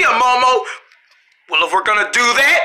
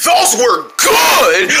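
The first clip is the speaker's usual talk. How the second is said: excited; 3 dB louder, much slower than usual. Acted. Kid tasting snack in ad.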